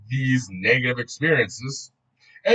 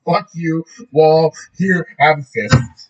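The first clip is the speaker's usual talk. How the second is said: mock anger; 6 dB louder, slower than usual. Mock rant at the wall.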